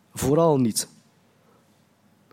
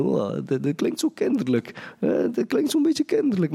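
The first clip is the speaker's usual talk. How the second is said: condescending veteran believer; 5 semitones higher than usual. Retold or imitated. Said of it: "iemand die veertig jaar ervaring heeft dan".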